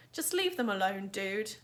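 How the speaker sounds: level, steady repeat of the warning; calm steady warning. Acted. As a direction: say it again calmly, unshaken. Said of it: "Amos repeated calmly".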